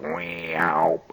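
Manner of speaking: low meow-like whine of a drill; drill noise. Retold or imitated. Old coot drilling a hole, low whining drill sound. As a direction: mimic the drill cutting. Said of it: "and he goes".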